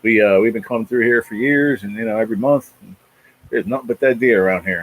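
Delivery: lightly imitated Southern trucker; a hint of a retold truck driver's Southern accent. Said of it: "had that Southern accent".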